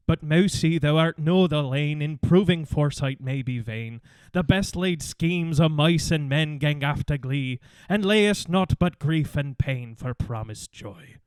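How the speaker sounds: slow, lilting mock Scottish reading of Burns; Scottish accent. Host reads Robert Burns to cohosts in a mock Scottish accent. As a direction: recite the Burns poem in a put-on Scottish brogue. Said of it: "I knew I had to put on a".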